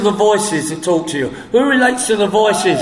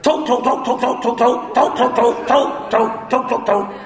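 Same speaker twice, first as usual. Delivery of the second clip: mocking chatter; 3 semitones higher than usual.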